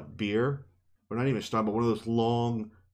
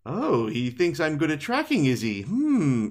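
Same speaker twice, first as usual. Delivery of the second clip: higher, mock-smitten musing with a long hmm; flattered switch from anger; 5 semitones higher, 3 dB louder than usual. Host imitating Nynaeve drinking up Lan's compliments, mock flattered. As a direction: play up being suddenly tickled by praise. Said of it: "she's so angry. She's like, but then all of a sudden".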